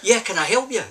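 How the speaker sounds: mildly mock call from the inner office. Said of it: "a voice from the inner office called".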